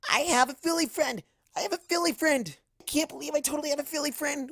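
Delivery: excited. Acted. Giddy over new friend.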